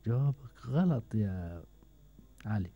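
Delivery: slow teasing verdict. Real, not acted. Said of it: "هو بفرح لما أقول غلط".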